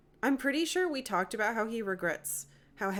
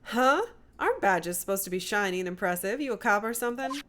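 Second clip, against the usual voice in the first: put-on Southern US accent. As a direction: challenge them in a mild Southern accent. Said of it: "I don't like doing Southern accents at all".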